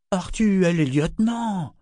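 high, anxious plea; uneasy stage whisper, fully voiced; worried warning. A narrator's reading. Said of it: "chuchota-t-il inquiet".

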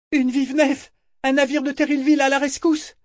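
high, urgent shout. A narrator's reading. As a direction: yell it across the deck. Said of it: "Malta hurlait".

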